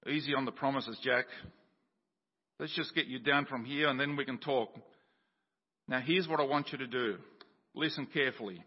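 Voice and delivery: calm God. Acted. God answering Jack calmly.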